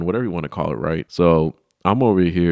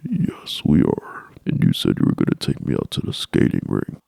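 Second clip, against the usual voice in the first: put-on hushed insistent girl voice; mock whisper; 12 semitones lower than usual. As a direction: whisper the claim like a secret. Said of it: "She's like".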